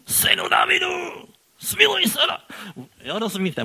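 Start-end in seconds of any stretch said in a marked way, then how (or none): 0.1-2.4 high, loud shout for mercy; loud desperate cry. Shown as a demonstration. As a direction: cry out over the crowd as loud as you can. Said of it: "On musel křičet".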